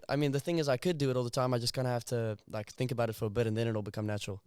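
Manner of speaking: South African English in casual chat; relaxed South African accent. Shown as a demonstration. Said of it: "South African for you for the rest".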